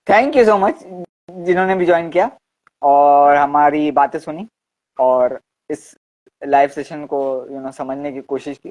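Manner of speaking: deliberately slowed-down speech; slow motion. Shown as a demonstration. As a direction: stretch each phrase out slowly. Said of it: "मैं भी इसी को थोड़ा slow motion में बोलता हूँ".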